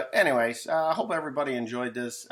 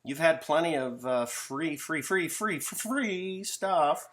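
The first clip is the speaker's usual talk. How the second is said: higher, lecturing parent voice; mock stern parents; 6 semitones higher than usual. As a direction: scold the grown kid like a fed-up parent. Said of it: "mom and dad say".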